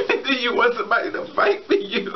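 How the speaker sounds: high voice bubbling into laughter; laughing through words. Real, not acted. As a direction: say it while losing it to giggles. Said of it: "I'm laughing".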